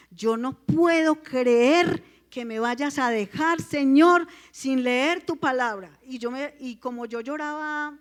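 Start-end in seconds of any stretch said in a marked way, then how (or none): 0.1-6.0 slow, drawn-out plea to God; pleading prayer. Retold or imitated. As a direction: stretch the words out, imploring the Lord. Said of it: "yo le dije". (súplica a Dios, lenta y enfática)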